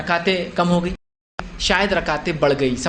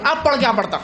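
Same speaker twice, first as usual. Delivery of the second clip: laughing, hammed-up old man scolding the imam; a comic, hotheaded old worshipper; mock angry old man; 4 semitones higher than usual. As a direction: mimic an old man flaring up mid-prayer. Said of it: "بوڑھا آدمی اتنا جوش میں آ گیا".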